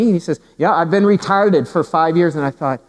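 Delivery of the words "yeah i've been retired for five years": "retarded" as a Newfoundlander's retired; lightly put-on Newfoundland accent, retired sounding like "retarded"; imitated Newfoundland accent. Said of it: "I realized he was saying retired".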